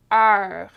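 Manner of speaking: "Heure" loud, with open eu and French R; open vowel demo. Shown as a demonstration. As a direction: model "Heure" with a wide, held vowel. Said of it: "it's heure".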